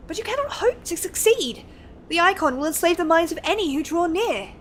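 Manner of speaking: lightly voiced scholarly NPC, measured and earnest; reading NPC lines. Streamer reading a scholar's quest dialogue to chat, lightly voiced. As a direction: read it like a lightly acted learned scholar.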